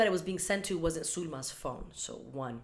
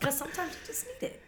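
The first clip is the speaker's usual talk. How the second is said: whispering; 10 semitones higher than usual. Real, not acted. Whispered aside.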